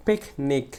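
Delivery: "পিকনিক" with a crisp, forceful পিক; stress on পিক. Shown as a demonstration. Teacher demonstrating word stress, push on পিক. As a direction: punch the first syllable of "পিকনিক". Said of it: "পিক শব্দটাকে আমাকে জোরে বলতে হয়েছে".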